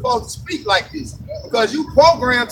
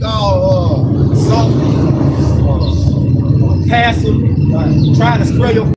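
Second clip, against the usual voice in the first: loud, heated; 6 dB louder, much slower than usual. Real, not acted. Heated preaching about soft talk.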